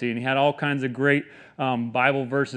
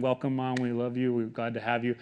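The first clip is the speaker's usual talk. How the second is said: soft, lower aside to a parent; tender welcome; 3 semitones lower, 6 dB quieter than usual. Real, not acted. Pastor welcomes his mom from the pulpit, tenderly. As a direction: drop the preaching force for a quiet, affectionate greeting. Greeting his mother in the congregation.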